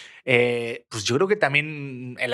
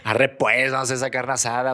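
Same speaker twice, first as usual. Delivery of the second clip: quick mock Monterrey norteño accent. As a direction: toss it off like a regio from Monterrey. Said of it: "con el acento regio". (imitando el acento regio de Monterrey, rápido)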